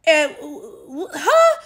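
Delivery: incredulous laugh, voice high; laughing in disbelief. Real, not acted. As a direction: laugh it off in shock.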